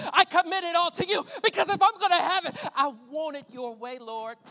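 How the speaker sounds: preached prayer, swelling and easing; emphatic pulpit plea; fervent prayer. Acted. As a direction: hand it over to God, point by point. Prayer continues with force.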